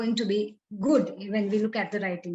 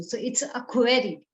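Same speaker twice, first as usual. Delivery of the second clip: ordinary delivery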